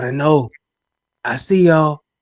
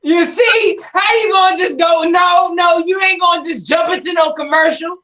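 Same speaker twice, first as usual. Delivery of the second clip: high, loud, amused complaint; laughing protest; 6 dB louder than usual. Real, not acted. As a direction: protest loudly while cracking up.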